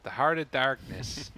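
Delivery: put-on slow, light Canadian accent. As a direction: drawl it a bit like a Canadian. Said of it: "Now I'm doing the Canadian accent".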